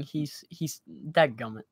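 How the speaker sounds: stuck repeating he's; real stammer on he's; stuttering. Real, not acted. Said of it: "with my stutter".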